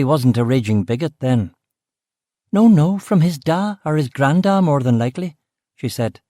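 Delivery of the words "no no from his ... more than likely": higher Belfast woman's voice, curt; brusque West Belfast cook. Acted. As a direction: Belfast woman, short with the visitor. Aileen answers.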